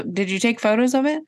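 ordinary talk, nothing marked

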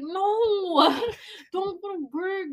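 high-pitched motherly protest; imitated protesting mom. Mom telling daughter to stay home, imitated protest. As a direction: voice a mom pleading, pitched well up.

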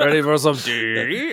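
slow, booming metallic distortion; garbled robotic voice. Real, not acted. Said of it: "It did it to you too".

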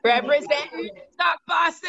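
slow, proud call-out; shout-out. Real, not acted. Guest proudly shouts out her hometown crew, slow shout. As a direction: announce it like a crowd is listening.

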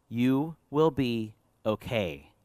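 very slow, deliberate and measured; slow reassurance. Acted. Preacher passing on God's comfort, slow reassurance. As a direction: let each word sink in slowly.

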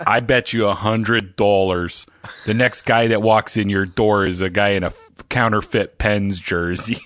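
lightly voiced Pittsburgh pawn-shop owner; imitating Pittsburgh guy. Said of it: "He's like".

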